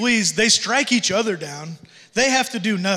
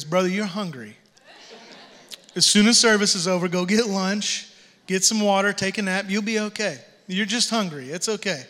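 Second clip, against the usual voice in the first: kind, soothing reassurance; gentle reassuring. Pretend. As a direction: settle a worried brother down gently. Imagined reply to a dreamer.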